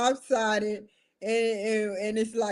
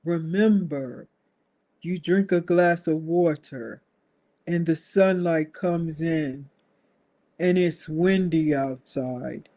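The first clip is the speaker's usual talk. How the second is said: calm someone down like a therapist; soothing mock reassurance; 3 semitones lower than usual. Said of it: "It was like".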